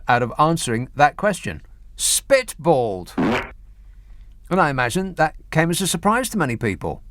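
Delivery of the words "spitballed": "Spitballed" said slowly, relishing each part; savouring the word. Real, not acted. Presenter mocking the jargon, slow incredulous repeat. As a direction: roll "Spitballed" out slowly in disbelief. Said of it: "spitballed around ideas".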